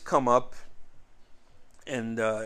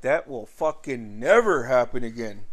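louder, leaning hard on never; retold stern warning; 6 dB louder than usual. Dad after confronting the bully, retold firm warning. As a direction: imitate a dad laying down the law.

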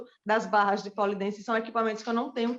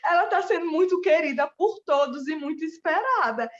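moved; 5 semitones higher, 4 dB louder than usual. Real, not acted. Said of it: "olha, eu fico emocionada".

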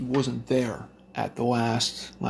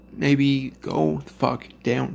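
forced politeness; much slower than usual. Retold or imitated. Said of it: "the nicest he was gonna get it from me".

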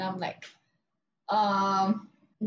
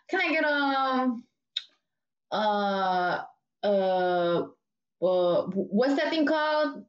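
spaced-out customer; much slower than usual. Retold or imitated. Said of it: "I don't know what she was off".

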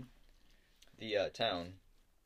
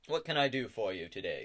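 barkeeper; 6 dB louder than usual. Acted. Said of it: "says the barkeeper".

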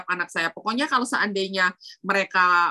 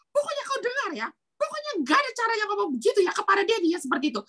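high, fast, angry father voice; 9 semitones higher, faster than usual. Retold or imitated. The angry husband rebuking his child, high and fast. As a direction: snap back like an angry dad.

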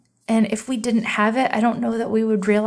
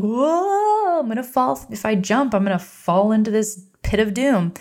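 mock panicked inner voice; 3 semitones higher than usual. Host voicing the hero's panic at the cave edge, playful mock fear. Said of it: "it's like".

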